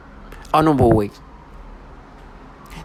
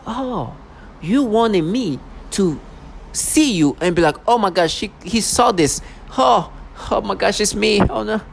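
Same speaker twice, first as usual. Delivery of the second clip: high, slow sarcastic voice, much higher; mock dismay; 7 semitones higher than usual. Mimicking the reaction his tormentors expect, in a high sarcastic whine. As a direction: parody a frightened victim, drawn out. Mocking what they want him to say.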